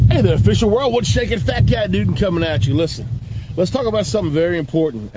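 hyped-up pitchman greeting. Acted. Character intro as Fat Cat Newton.

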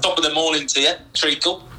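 a badly faked Cockney that slips toward Australian; chirpy Cockney greeting, hammed-up and unsure; mock Cockney accent. Cockney accent, teasing the winner in a quiz recap. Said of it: "Australian Cockney".

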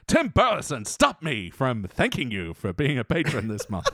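lightly hammed-up comic actor; Jim Carrey. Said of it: "can we get some Jim Carrey?".

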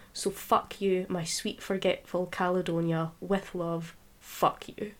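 measured, deliberate poetry recital; defiant spoken-word poem; poem reading. Acted. Reads her poem aloud.

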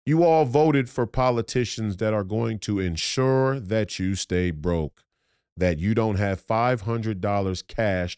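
slow, measured restatement, pitch settling down; deliberate emphasis. Real, not acted. Telling voters what they voted for, slow and deliberate. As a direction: spell it out slowly, word by word.

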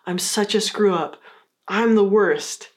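drawn-out, self-pitying "I'm the worst"; self-blaming apology. Shown as a demonstration. Teacher demos the negative way, slow and self-blaming. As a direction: wallow in sorry, dragging the end out slowly. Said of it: "A more negative way to approach this is to say".

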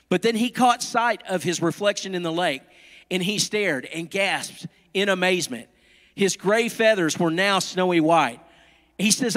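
lively, melodic storytelling with careful phrasing; animated picture-book narration; storybook read-aloud. A narrator's reading. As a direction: read it to little children.

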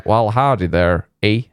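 slow Texan-tinged mock Canadian accent; badly faked Canadian accent, slowly; Canadian accent that comes out Texan; old Canadian accent. Shown as a demonstration. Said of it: "before it was".

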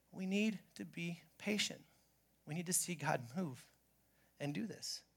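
dropping to a hush; quiet. Real, not acted. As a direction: bring it right down, hushed and intense. Quiet hushed close of a point.

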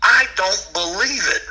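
slow, high holler; hollering in disbelief. Retold or imitated. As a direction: imitate a buddy crying out amazed, drawn out. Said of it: "I heard him over there holler".

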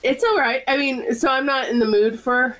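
raspy voice like a chain smoker; hoarse sick smoker's rasp. Real, not acted. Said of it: "so I sound like a chain smoker".

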